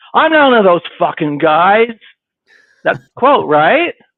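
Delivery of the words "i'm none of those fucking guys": loud, raised-voice hollered yell. Quoting Chad's reply to being called Peter: yelling a quoted line. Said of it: "I'm sorry if I'm yelling".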